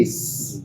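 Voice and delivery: "एस" ending in a soft s; soft C sound. Shown as a demonstration. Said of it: "soft sound आई".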